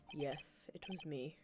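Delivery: soft unvoiced admission; whispered confession.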